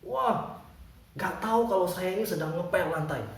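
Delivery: mildly acted angry janitor; lightly voiced scolding old man. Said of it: "Jadi dia marah-marah terus".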